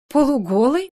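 outraged echo of his word; rising, scandalised disbelief; indignant. Acted. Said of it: "возмущённо".

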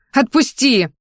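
high, urgent demand; screaming. A narrator's reading. Girl struggles in the man's grip, screaming. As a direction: cry out to be freed. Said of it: "заорала я".

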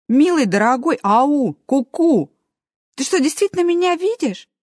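high, excited little hamster; squeaky hamster voice. Acted. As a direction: pitch it up as a tiny hamster ghost. Hamster voice from upper shelf. (писклявый голос хомячка)

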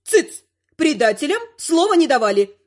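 высоко и громко, приказным тоном; рявкнуть, осадив предателей; рявкнула бабуля. Acted. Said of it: "рявкнула бабуля". (резкий окрик)

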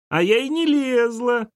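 put-on high, indignant child's voice; a small girl insisting she's innocent; protesting little girl. A narrator's reading. Girl denies blame to her father, high protest.

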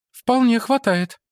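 high woman's voice; woman character. Acted. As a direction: Mara greets the monk, pitched high. (Мара приветствует монаха высоким женским голосом)

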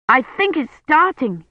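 put-on high, eager boyish voice; excited boy. Colin leaping up at a noise, excited. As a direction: jump in with sudden hope.

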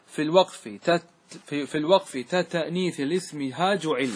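measured, chanted recitation of the verse. Shown as a demonstration. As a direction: recite the line of poetry slowly. (إنشاد بيت الألفية ببطء)

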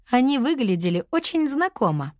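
ordinary delivery, nothing marked

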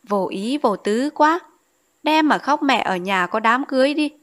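a guest sniping about the crying bride, lightly mocking; sarcastic remark. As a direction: drag out the mockery, a touch snide. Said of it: "nói giọng mát mẻ".

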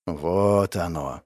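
low, slow, resigned sigh. A narrator's reading. Hero sighs, expecting betrayal, low and slow. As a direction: breathe the words out heavily. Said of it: "вздохнул я".

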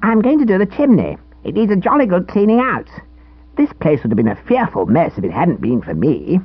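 put-on high, smug boy voice. A narrator's reading. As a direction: boast like a self-satisfied scout. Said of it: "with a smugness".

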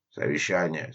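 gruff. Acted. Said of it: "говорил он грубым голосом".

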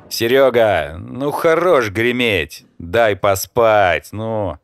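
loud, drawn-out yell from under the covers; sleepy guy yells at the noise in the kitchen, loud and slow; sleepy shout. Acted. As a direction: shout at the noisy flatmate to let you sleep. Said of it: "крикнул Влад".

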